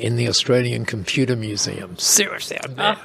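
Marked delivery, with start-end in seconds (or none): 2.0-2.6 breathy whisper; whispered aside. Real, not acted. Proudly confiding he is in the museum, whispered. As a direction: whisper it like a secret.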